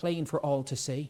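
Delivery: plain reading voice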